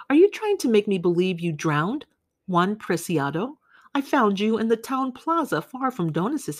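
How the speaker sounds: lightly voiced grave companion. Old woman chiding Juan Preciado about his death, lightly voiced. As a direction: tease him gently for playing dead.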